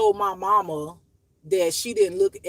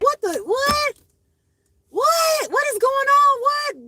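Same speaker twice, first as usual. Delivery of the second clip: high, loud, baffled "what?"; shocked disbelief; 5 dB louder, slower than usual. Retold or imitated. Retelling her shock at the news, high incredulous cries. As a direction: squeal out the confusion. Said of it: "I'm just like".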